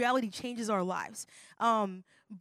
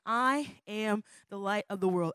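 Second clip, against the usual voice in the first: slow declaration. Shown as a demonstration. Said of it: "this is the first point".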